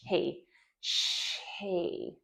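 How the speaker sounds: "he, sh, he" split apart, quiet and gapped; choppy wrong way. Shown as a demonstration. Therapist showing the wrong choppy sh he. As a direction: break the sounds apart on purpose. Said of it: "We're not doing".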